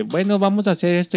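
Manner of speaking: high put-on teacher voice; a lightly hammed-up new teacher; mock substitute teacher. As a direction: imitate the nervous substitute.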